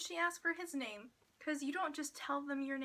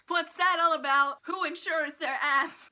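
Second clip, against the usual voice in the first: raised-voice, baffled outburst; comic outraged disbelief at full volume; loud incredulity; 3 semitones higher, 9 dB louder than usual. Real, not acted. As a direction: demand an answer, loudly appalled. Baffled rant about insured abs.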